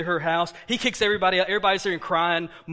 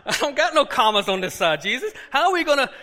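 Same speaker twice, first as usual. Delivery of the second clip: panicked protest; 5 semitones higher, 5 dB louder than usual. Retold or imitated.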